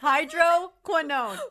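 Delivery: slow, sounded-out hydroquinone; model pronunciation. Shown as a demonstration. Co-host coaching the stuck reader, slow hydroquinone. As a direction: hydroquinone drawn out as hydro, kwin-OWN. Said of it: "Why can't I say it?".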